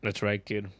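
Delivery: light put-on Australian accent, mate on every line; playful mock Aussie streamer voice. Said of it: "I'm stuck with an Australian accent".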